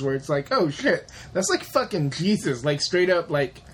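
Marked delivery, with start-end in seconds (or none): 0.5-2.7 mock realization, slightly raised voice; understated mock amazement; mildly startled quote. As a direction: act out a casual moment of recognition. Acts reaction to seeing Jesus.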